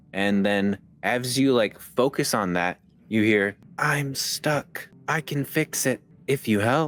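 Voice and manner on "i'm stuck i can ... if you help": faint, frightened whisper. Voicing a voice in a character's head: faint whisper. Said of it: "faint whisper in your, like, head".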